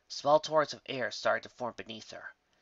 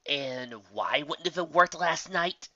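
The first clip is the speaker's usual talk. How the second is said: slow, pointed demanding question; 4 semitones higher, 4 dB louder, slower than usual. Acted. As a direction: press her for an answer, slowly. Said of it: "asked demandingly".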